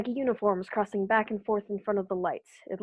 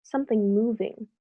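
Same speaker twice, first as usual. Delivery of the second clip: calm report building to urgent, louder alarm; growing alarm; 3 dB louder than usual. Acted. Captain describing the rising machine to listeners, mounting urgency. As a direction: push harder as the machine rises. Metal machine rises from cylinder.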